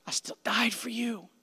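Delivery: a sudden unvoiced whisper after the shout. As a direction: drop to a hushed whisper.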